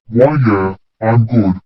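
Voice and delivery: lightly shaky, unsure voice; a touch of a shaky voice. Acted. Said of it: "I said in a shaky voice".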